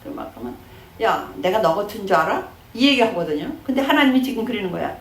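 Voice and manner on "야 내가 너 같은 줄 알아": imitated quarrel challenge, rising at the end; a touch of indignation; mock angry retort. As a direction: act out a mildly cross comeback. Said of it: "우리 화나면".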